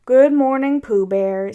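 lightly voiced gloomy donkey, heavy opening; Eeyore. Eeyore greeting Pooh Bear, gloomily. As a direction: greet him with a touch of gloom, sinking after the first words. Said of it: "said Eeyore gloomily".

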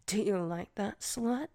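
fast taunting whisper. Acted. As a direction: hiss the taunt quickly.

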